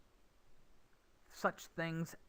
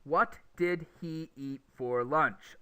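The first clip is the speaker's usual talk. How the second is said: slow, word-by-word "What did he eat for lunch"; each word separate, the "h" of "he" kept; example sentence; 3 dB louder, slower than usual. Shown as a demonstration. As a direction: spell it out slowly, word by word. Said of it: "here's an example".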